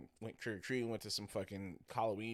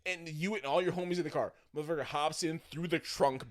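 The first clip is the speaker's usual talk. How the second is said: high, yelled rant easing off gradually; really loud; 10 semitones higher, 8 dB louder than usual. Real, not acted. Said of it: "I'm getting really loud into it".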